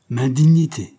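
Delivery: loud, scoffing laugh in the voice; laughing exclamation. A narrator's reading. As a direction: cry it out with a laugh. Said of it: "s'écria-t-il en riant".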